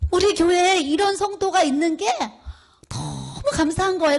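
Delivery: retold heartfelt amazement; overwhelmed with gratitude. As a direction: relive being deeply touched. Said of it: "감사하고 감격하고 감동하고".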